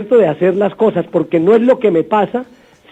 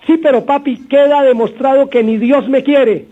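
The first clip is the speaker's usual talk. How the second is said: put-on whiny crying child. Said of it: "y llora ese muchacho".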